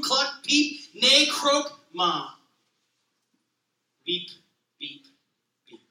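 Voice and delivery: gentle, even picture-book read-aloud; reading to children. A narrator's reading. Pastor reading a children's book to the congregation, gentle read-aloud. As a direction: read it like a bedtime story to a toddler.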